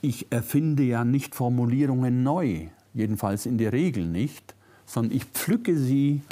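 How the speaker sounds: ordinary delivery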